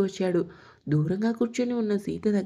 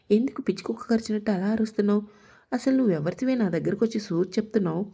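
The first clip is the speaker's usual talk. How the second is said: angry; faster than usual. Acted. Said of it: "కోపంగా చూసింది పూజ".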